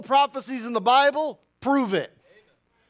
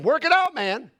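higher, punchy "Work it out"; Paul voiced casually; 5 semitones higher than usual. Preacher voicing Paul encouraging believers, punchy. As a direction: toss it off like a friendly coach. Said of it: "He's saying".

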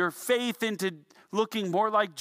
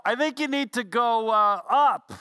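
teasing call, higher and louder; smart aleck yell; 4 semitones higher, 5 dB louder than usual. Retold or imitated. Smart aleck on the ground yells up to the climber, teasing. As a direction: yell the obvious answer back up, mocking. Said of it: "would yell".

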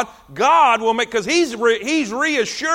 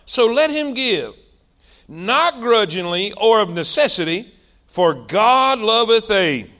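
solemn preacher reading scripture aloud. Acted. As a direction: intone the verse like a preacher. Reads scripture in preaching cadence.

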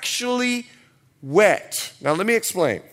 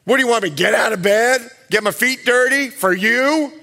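loud, faster whiny refusal with a laugh; mock sulky wife; 3 dB louder than usual. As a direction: play the spoiled wife. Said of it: "and she goes".

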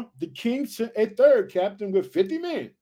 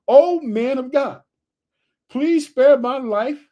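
pleading captain; 4 semitones higher, 6 dB louder, slower than usual. Acted. Captain pleading for his life.

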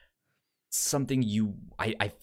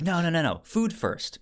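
playful refusal; 7 semitones higher than usual. Retold or imitated. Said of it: "and she's like".

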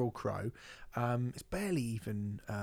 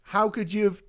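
mock angry; 5 semitones higher, 10 dB louder than usual. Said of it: "Do it again properly".

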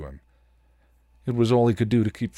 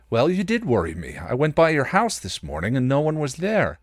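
building from firm to loud and high; voice steadily rising; 8 semitones higher, 5 dB louder than usual. Acted. Riley confronting Buffy, building from firm to loud. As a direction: let the worry climb with every sentence. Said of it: "His voice was steadily rising".

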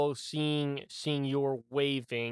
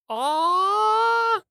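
high loud mock yell; imitating the battle cry; 5 dB louder than usual. GM teasing the player by copying his high battle yell. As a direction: echo the player's war scream. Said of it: "It's just an".

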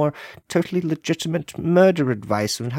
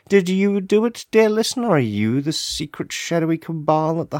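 theatrical accusation; 4 semitones higher than usual. Acted. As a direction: point the finger at the listener, hammed up. Mock accusing the listener.

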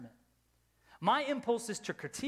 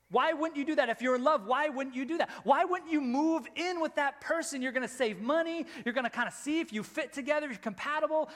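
higher-pitched, insistent mock questioning; mock incredulity; 6 semitones higher, 3 dB louder than usual. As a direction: press the point like a baffled outsider. Voicing the world's baffled objection.

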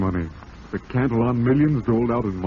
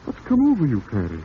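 startled; 2 semitones higher than usual. Acted. Lover suddenly demanding.

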